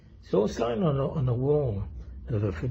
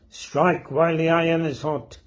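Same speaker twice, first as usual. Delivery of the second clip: higher, half-hearted militant yell; mock shouting; 5 semitones higher, 4 dB louder than usual. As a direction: imitate a unionist's rallying shout, not at full volume. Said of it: "shouting and screaming at the top of his voice".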